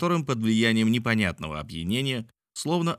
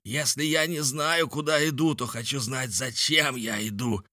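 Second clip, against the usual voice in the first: indignant yelling; 6 semitones higher than usual. A narrator's reading. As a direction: argue in a raised, moderately angry voice. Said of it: "заорал Николь". (возмущённо, на повышенном тоне)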